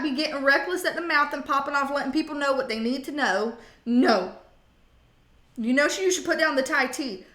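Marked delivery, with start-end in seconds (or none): 3.8-4.3 loud, sharp no; firm no. Pretend. Scolding the viewer for bad habits, loud firm no. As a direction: shut it down hard.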